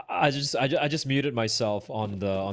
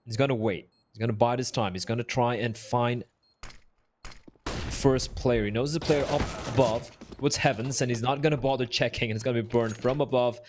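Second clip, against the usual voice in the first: live esports play-by-play; lively match commentary. Acted.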